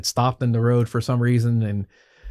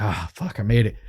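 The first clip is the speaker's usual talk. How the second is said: relieved sigh. Retold or imitated. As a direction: let it out like you finally made it. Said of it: "like, relief kind of a thing".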